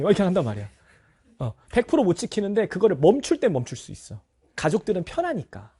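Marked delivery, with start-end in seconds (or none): none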